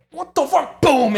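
high, squealed disbelief; airborne panic. Retold or imitated. Passenger floating after the ramp, airborne panic. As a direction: reenact a helpless mid-air yelp. Reenacting flying inside the van.

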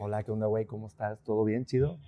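low, soft attempt at Mexican small talk; attempted Mexican accent. Shown as a demonstration. Spaniard showing his host how he talks neutral, attempted Mexican accent. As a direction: greet casually in a put-on Mexican accent. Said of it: "A ver, habla normal".

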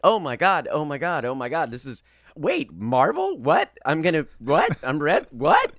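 acting out a thrilled double-take, building to a high yelp; stunned excitement. Actor relives learning the script is Marvel, stunned excitement. Acts out reaction to Marvel role.

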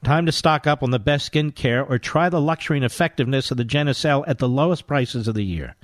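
upbeat hard-sell ad read. Acted. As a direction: push the sale like an infomercial. Host reads skincare ad.

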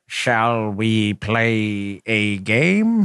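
very slow, low monotone eighties computer; hammy robotic movie computer, word by word; worst computer voice. Acted. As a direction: drag it out like a bad old computer. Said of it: "in the worst computer voice from the nineteen eighties".

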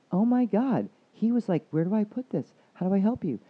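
very high, loud "oh my God"; breathless mock amazement, voiced high; amazed client. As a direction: sell her astonishment at the husband.

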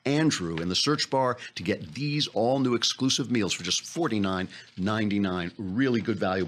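upbeat sponsor read; live radio ad read. Acted. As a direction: sell it to listeners, punching the offer. Reads a sponsor ad.

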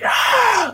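big high breathy gasp; awed gasp. Retold or imitated. Young actor describing performing for a crowd, awed gasp. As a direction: gasp as if facing a huge crowd.

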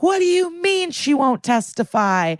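high-pitched, hammed-up disbelief; mock incredulous outrage. Lawyer's outraged reaction, acted.

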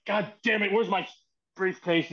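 retold scolding, mildly heated; imitated angry demand. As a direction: play-act laying into an underling. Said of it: "laying into Pat, and he's like".

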